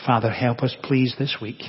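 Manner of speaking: measured prayer with long pauses; closing prayer. Real, not acted. Preacher to the Father for help this week, praying.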